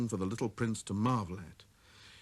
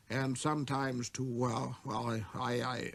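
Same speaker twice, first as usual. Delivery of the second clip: king flustered by his own order; vexed spluttering. A narrator's reading. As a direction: lose the thread, flustered. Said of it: "he spluttered a little and seemed vexed".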